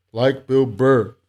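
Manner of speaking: a hint of Bill Burr, slow and punchy; mock Bill Burr. Reading a viewer's comment in a light Bill Burr voice. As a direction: lightly do Bill Burr's rant voice. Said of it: "That's exactly how he talks too".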